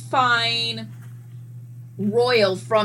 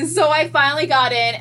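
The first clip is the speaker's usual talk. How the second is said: higher and louder through laughter; laughing; 4 semitones higher, 4 dB louder, faster than usual. Real, not acted. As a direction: laugh the words out. Laughs while recalling crying.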